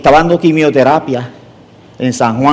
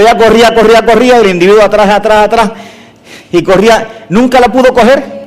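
excited chase narration; 5 semitones higher than usual. Acted. Preacher tells the congregation the chase, excited.

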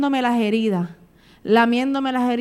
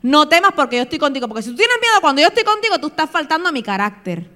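raised-pitch, insistent divine rebuke; commanding; 3 semitones higher than usual. Acted. Preacher voicing God to the fearful, insistent command. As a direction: lay it down as an order. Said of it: "es una orden, es un mandato".

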